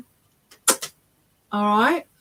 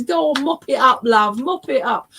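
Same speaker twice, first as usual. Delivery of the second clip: higher, louder affectionate coaxing; jollying a loved one along, imitated; loving urging; 4 semitones higher, 4 dB louder than usual. Husband handing over kitchen roll, fondly urging. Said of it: "saying it with such love".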